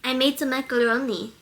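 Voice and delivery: lightly attempted Russian accent; tentative mock Russian. Shown as a demonstration. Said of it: "That doesn't sound right".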